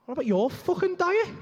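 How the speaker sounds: high, loud snapping comeback; indignant shout at his wife; furious retort. Pretend. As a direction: fire it back at her.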